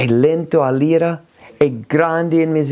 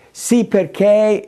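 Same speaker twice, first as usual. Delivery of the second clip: higher, slow defensive "Sì, perché"; self-justifying; 5 semitones higher, slower than usual. Acted. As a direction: start an excuse defensively. (giustificazione difensiva, voce più alta)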